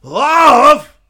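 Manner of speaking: loud, high mocking echo; scornful love. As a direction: spit the word back with contempt. Logan mocking the word love.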